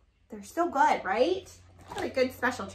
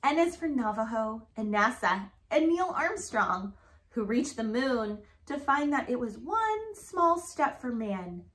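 rhythmic picture-book read-aloud; reading to children; slower than usual. Acted. Reading a rhyming alphabet book to Grace, sing-song read-aloud.

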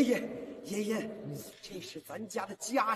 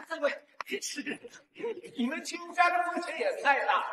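laughing; 4 semitones higher than usual. Acted. Investor laughs and declines.

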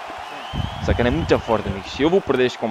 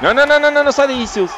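panicked shout; 8 semitones higher than usual. Real, not acted. Gamer begging his fighter to escape, panicked shouting. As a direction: yell at your fighter to get out.

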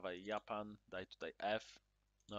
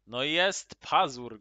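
loud, higher burst of joy at the loot; excited cheer; 4 semitones higher, 13 dB louder than usual. Real, not acted. Gamer cheering loudly when the claw finally drops.

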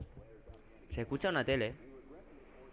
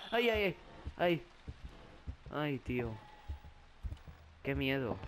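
startled; 4 dB quieter than usual. Real, not acted. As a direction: yelp at a sudden scare. Susto en el juego. (gritos agudos de susto)

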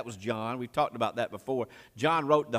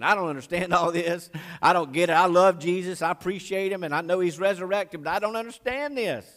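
louder, higher, acted-out exasperation; frustrated confusion; 4 semitones higher, 6 dB louder than usual. Preacher acting out Peter not understanding it all, frustrated. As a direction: voice a baffled protest, rising in pitch.

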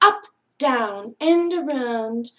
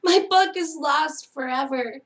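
upset. Acted. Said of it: "cried Mouse".

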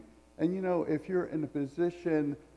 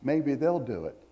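lightly voiced priest brushing him off; indignant priest. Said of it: "the priest got indignant and said".

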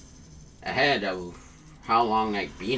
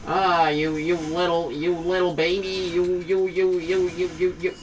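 sputtering rage; 8 semitones higher, 4 dB louder than usual. Real, not acted.

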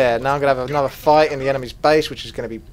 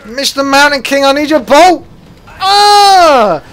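loud high cry for help; urgent call; 12 semitones higher, 11 dB louder, slower than usual. Pretend. Gamer calling his Mountain King, loud and high. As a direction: call out to the hero.

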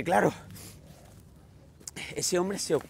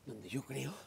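hushed voice. Real, not acted. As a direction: creep up in near silence. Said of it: "ahora máximo silencio". (casi en silencio, preparándose para sorprenderlo)

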